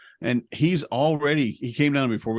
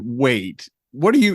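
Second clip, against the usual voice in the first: startled interruption; 5 dB louder than usual. Retold or imitated. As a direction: cut in, taken aback. Retells his startled reply to son.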